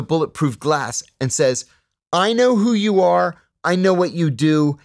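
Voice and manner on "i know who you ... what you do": mildly hammed-up stern officer, louder and higher; retold stern warning. Consular officer confronting an unwelcome visitor, imitated stern warning.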